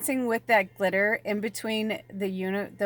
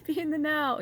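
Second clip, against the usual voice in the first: laughing; 8 semitones higher than usual. Pretend. Repeats the phrase, laughing.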